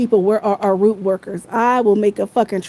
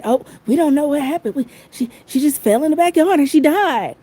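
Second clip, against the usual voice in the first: mock innocent excuse; 5 semitones higher than usual. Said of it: "that's how they say".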